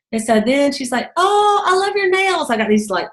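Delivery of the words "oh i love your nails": high, slow, drawn-out gush; gushing compliment. Retold or imitated. Store girl admiring a customer's nails, gushing. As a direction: imitate a girl adoring something.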